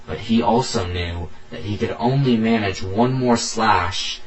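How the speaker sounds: emphatic storyteller reading aloud; punchy, urgent tale-telling; dramatic story narration. A narrator's reading. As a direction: narrate the fight with force. Reads own story aloud.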